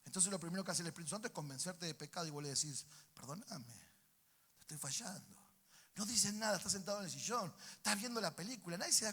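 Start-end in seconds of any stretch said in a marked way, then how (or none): 3.1-5.4 soft, murmured plea for forgiveness; quiet confession. Acted. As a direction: confess softly to God. Acted private confession to God.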